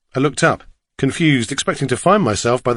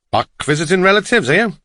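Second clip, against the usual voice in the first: higher, lilting Welsh cabbie; Welsh accent; 6 semitones higher, faster than usual. A narrator's reading. Driver quizzes his passenger, lilting Welsh accent. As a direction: ask in a Welsh singsong. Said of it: "his strong Welsh accent".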